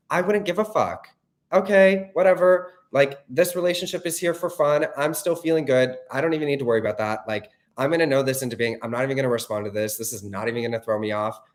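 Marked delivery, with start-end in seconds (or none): 0.1-7.3 breezy dismissal. Real, not acted. Breezy dismissal after panic quote.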